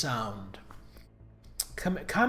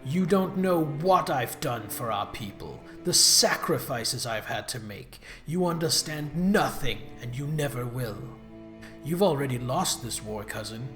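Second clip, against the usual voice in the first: mustache twirling villain; 4 semitones lower than usual. Acted. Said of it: "You talk like a cartoon villain".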